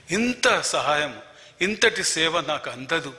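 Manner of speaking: slow emphasis. Real, not acted. Emphasising God's help.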